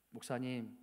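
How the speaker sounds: hushed, half-whispered tearful vow; quiet voice of a crying wife, whispering her refusal; softly weeping wife refusing divorce; tearful plea. Retold or imitated. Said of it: "막 울면서 뭐라고 이야기하는지".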